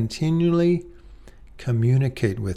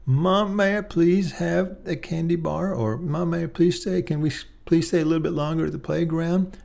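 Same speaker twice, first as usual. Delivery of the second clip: put-on polite child asking; 5 semitones higher than usual. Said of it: "taught them how to make an appeal".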